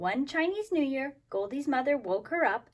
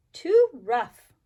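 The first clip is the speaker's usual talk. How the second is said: a louder cross "too rough"; loud complaint; 9 dB louder than usual. Acted. Goldie complains about the massage chair, louder. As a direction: complain loudly, springing up. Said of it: "she cried".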